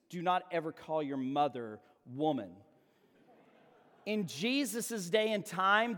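ordinary talk, nothing marked

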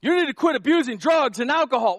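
high, loud scolding; mock-lecture like a condemning church; preacher ordering people to quit, loud. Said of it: "that condemning statement".

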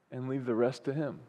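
sudden low, soft landing; low, soft sermon close; hushed resolve. Real, not acted. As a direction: let it settle quietly after the climax. Hushed drop after the climax.

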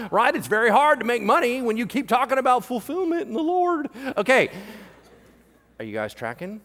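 ordinary talk, nothing marked

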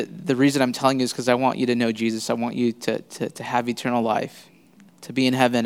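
soft, sincere retold plea; hushed, heartfelt explanation with small hesitations; gentle earnest appeal. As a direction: explain it tenderly to a close friend. Retells gently explaining faith to friend.

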